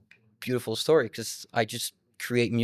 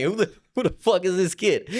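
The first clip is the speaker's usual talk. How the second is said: shocked teacher; 8 semitones higher, 4 dB louder than usual. Retold or imitated. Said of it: "teachers were looking at me".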